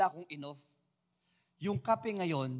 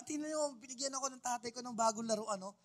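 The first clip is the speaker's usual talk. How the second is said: put-on fast, high kid showing off; mock childish boasting; childlike bragging; 7 semitones higher, 6 dB quieter, faster than usual. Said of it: "pinagyayabang mo sa iba".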